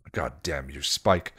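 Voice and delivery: low, held-in anger; seething. Acted. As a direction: seethe with restrained fury. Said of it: "Giles seethed".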